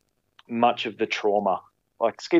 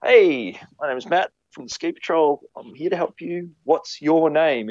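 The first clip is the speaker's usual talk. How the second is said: rescuer's bright call-out, higher and slowing down; rescuer calling to patient; 7 semitones higher than usual. Retold or imitated. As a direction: ski patroller calling down to a dazed injured skier. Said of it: "and I'm going".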